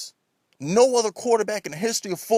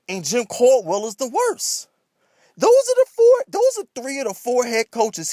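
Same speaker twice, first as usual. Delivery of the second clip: escalating comedy rant; 4 semitones higher than usual. Real, not acted. Heated rant about coaches.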